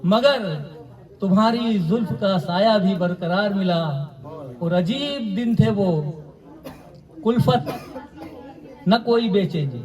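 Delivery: poetry recitation. Acted. Poet repeating each line for mushaira listeners, deliberate recitation. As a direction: recite verse with measured, deliberate phrasing.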